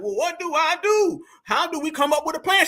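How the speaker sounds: mock her asking for a plan; mock Nicki voice. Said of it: "She's like".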